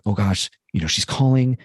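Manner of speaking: retold mild panic, questions piling up; worried self-talk. Speaker retelling spiraling thoughts about her call, mildly panicked. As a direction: fret through a run of anxious questions.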